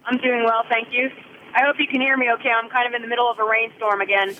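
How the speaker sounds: muffled phone line in a rainstorm; underwater. Real, not acted. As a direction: sounds like talking underwater. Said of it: "You sound like you're drowning".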